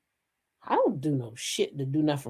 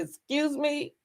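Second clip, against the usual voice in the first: indignant excuse me; 9 semitones higher, 7 dB quieter, slower than usual. Retold or imitated. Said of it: "I said".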